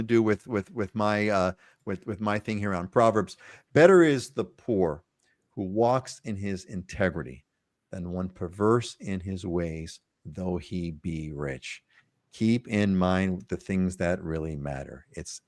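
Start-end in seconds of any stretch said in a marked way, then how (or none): 3.7-11.8 slow, measured recitation falling away at the end; solemn proverb reading. Acted. Host closing the show with his proverb, solemn reading. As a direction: read it out slowly, phrase by phrase, letting it settle.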